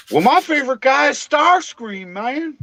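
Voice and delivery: put-on high, hammy New England accent; imitating a buddy's New England accent; Deluxe's New England accent. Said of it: "my fucking terrible New England accent".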